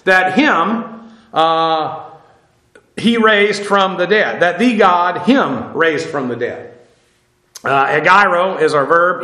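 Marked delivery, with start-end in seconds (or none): 0.1-1.1 "him" set out as the key word; stress on "him". Shown as a demonstration. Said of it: "the emphasis here is on him". 4.4-6.8 "him" set apart and stressed, slowly; slow down and single out "him". Shown as a demonstration. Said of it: "the emphasis here is on him".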